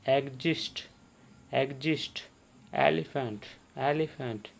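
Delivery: "एग्जिस्ट" and "एलिफेंट" each begun on a clear ए; ए sound demo. Shown as a demonstration. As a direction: model "एग्जिस्ट", "एलिफेंट" word by word with initial e. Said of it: "ए का उच्चारण आ रहा है ना".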